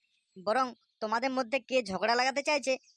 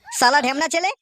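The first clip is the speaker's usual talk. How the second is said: much louder, higher angry shouting at the son; furious father yelling; 3 semitones higher, 8 dB louder than usual. Acted. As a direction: roar for the boy to come out. (রেগে আগুন বাবার চিৎকার)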